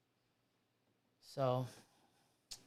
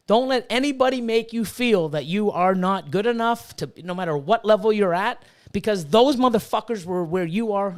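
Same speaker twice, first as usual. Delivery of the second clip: getting mad. Real, not acted. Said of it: "I'm getting mad".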